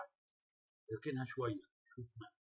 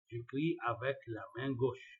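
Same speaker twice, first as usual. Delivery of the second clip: slow careful reading; much slower than usual. Shown as a demonstration. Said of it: "reading French answer slowly".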